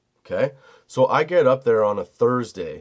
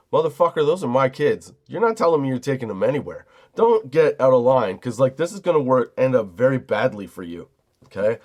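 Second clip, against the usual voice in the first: pushy, heated warning, slightly louder; chest-up threat; 2 semitones higher, 3 dB louder than usual. Retold or imitated. Dad squaring up to the guy over his kids, threatening. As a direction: square up and warn him off. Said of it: "I did the whole, like, jackass thing".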